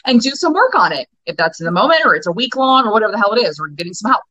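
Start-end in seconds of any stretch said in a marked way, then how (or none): 0.1-1.1 resolute self-talk. Shown as a demonstration.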